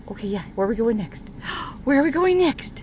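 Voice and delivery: loud, eager dog voice; voicing the dog. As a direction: play the pup asking what's next. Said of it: "He's like".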